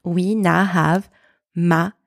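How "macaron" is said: "macaron" spaced out, French R and nasal ending; syllable-by-syllable macaron. Shown as a demonstration. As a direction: put "macaron" together syllable by syllable with pauses. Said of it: "if we put all of these sounds together".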